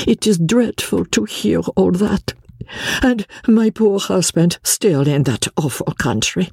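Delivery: tearful French émigrée pleading in broken English; French accent. A narrator's reading. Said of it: "she said in broken English".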